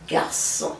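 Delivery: garçon with the C as a soft s. Shown as a demonstration. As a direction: say "garçon" with an s sound for the ç. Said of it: "it's a soft C. So you pronounce it".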